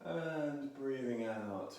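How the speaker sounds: And breathing out drawn out slowly; slow guiding voice. Shown as a demonstration. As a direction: stretch "And breathing out" across a long exhale. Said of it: "repeat this nice and slowly".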